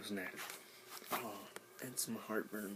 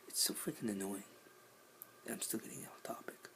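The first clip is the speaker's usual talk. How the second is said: whispering; 5 dB quieter than usual. Real, not acted. Whispering aside.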